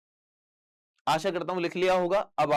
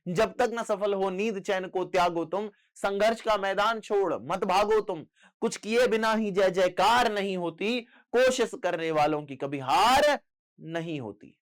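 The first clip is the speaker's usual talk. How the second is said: rousing, slightly raised verse delivery; poem recitation; 3 semitones higher than usual. Acted. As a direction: recite it line by line to urge students on. (जोश भरा कविता पाठ)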